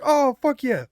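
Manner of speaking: high, loud hyped-up cheer; excited agreement. Retold or imitated. Replying to friends who smoke weed too, loud hyped cheer. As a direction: reenact being totally stoked.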